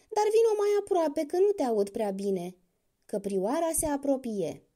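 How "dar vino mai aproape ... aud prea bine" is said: lightly voiced crocodile, higher, mock sorrow; a crocodile pitying his meal; lamenting crocodile. A narrator's reading. Crocodile lures the doe.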